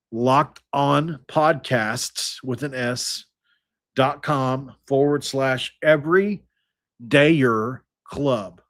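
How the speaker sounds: slow, spaced-out web address; said slowly. Shown as a demonstration. Host repeats the link for audio listeners to rewind, slowly. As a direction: spell out the address slowly, pausing between the parts. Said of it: "I'm gonna say it slowly for you".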